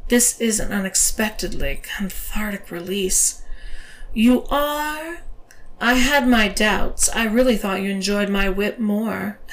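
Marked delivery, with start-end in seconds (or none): 4.1-9.4 mocking dominatrix. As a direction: tease him with mock doubt. Dominatrix character voice.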